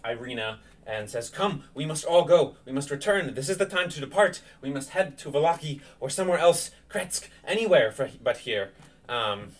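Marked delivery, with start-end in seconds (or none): 1.3-8.7 lightly acted anxious protector, slightly raised pitch; Ismark, urgent. Ismark urging Irina to leave town, lightly urgent. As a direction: press them to leave, with mild urgency.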